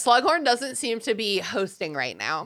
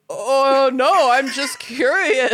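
fake innocence; 4 semitones higher, 5 dB louder, much slower than usual. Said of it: "And Harry's like".

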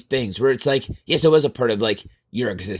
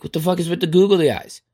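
higher-pitched, incredulous question; baffled exasperation; 5 semitones higher, faster than usual. Acted. Boss finds googly eyes on the potato, baffled. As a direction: demand an explanation, pitch lifted in disbelief.

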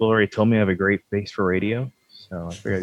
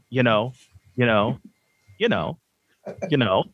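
repeated fillers; 3 semitones higher than usual. Shown as a demonstration. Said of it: "all the ums that I've cut out".

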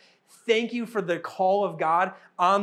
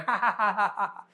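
imitating kids' laughter; 2 semitones higher than usual. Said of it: "they'll be laughing and smiling, going".

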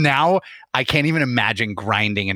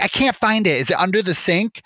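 much higher, puzzled little-sister voice; confused sister; 9 semitones higher than usual. Retold or imitated. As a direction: mimic a baffled sister searching under the sink. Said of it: "She's like".

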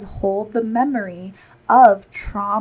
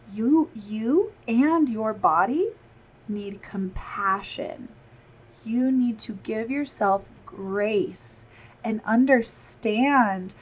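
tender; slower than usual. Real, not acted. Tender reassurance to mothers.

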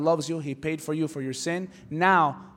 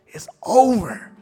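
gloating demons; 3 semitones higher, 7 dB louder, slower than usual. Acted.

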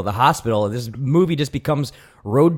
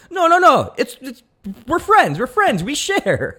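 put-on Mexican accent; 13 semitones higher, 4 dB louder, slower than usual. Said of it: "She's like".

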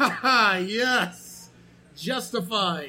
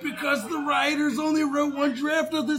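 mock Superman reply; 6 semitones higher, 3 dB louder than usual. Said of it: "Superman to say".

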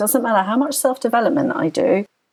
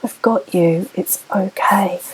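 tender self-soothing. Retold or imitated. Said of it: "just say something like".

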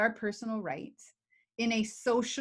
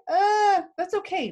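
mock hurt whimper; 10 semitones higher, 6 dB louder than usual. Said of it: "the other person is like".

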